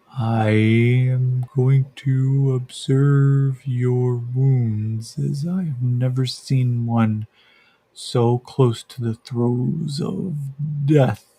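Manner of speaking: slow, soft, gentle voice in his head; soft gentle creature. Acted. The creature speaks into Yakim's head, slow and gentle. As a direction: speak slowly and gently, like a thought. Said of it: "It's very soft and gentle".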